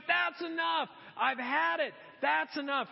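high, emphatic fed-up outburst; mock exasperation. Delilah fed up with Samson's lies, mock exasperated. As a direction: put your foot down, acting exasperated.

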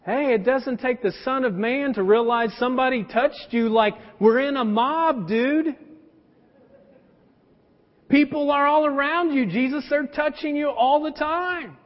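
lightly mocking, incredulous friend; sarcastic disciples. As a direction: tease him that it's obvious, dude. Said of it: "the disciples are like".

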